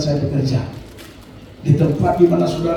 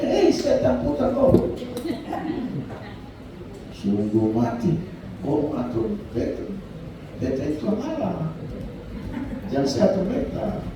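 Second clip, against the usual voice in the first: retold rebuke; 3 semitones higher, 7 dB quieter than usual. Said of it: "makanya Yesus marah dia".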